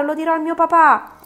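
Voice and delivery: put-on a boy begging to be let go at the top of his lungs; desperate child's scream. Boy voiced in the story. (bambino disperato che urla, voce molto acuta e fortissima)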